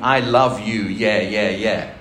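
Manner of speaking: loud, open I love you with eager yeahs; gushing American version. Shown as a demonstration. Preacher mocking how an American would write the song. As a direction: belt it out like an American pop lyric. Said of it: "if that had been written by an American".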